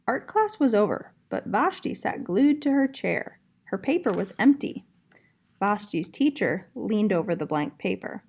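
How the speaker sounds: put-on lively storybook reading to young kids; reading to children. A narrator's reading. Art teacher reading a picture book to her young class, lively and clear. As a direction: read it out like story time for little ones.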